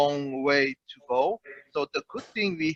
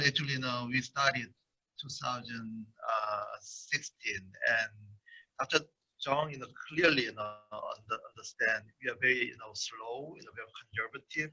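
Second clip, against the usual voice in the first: barely audible, mumbling far from the mic; soft and hard to hear; very low voice; 3 semitones lower, 9 dB quieter than usual. Real, not acted. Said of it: "your voice is very low".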